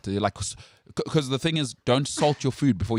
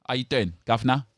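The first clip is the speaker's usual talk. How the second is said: lightly put-on Cockney accent; a hint of Cockney in an acted greeting; mock Cockney. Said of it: "Now you're gonna go back and say".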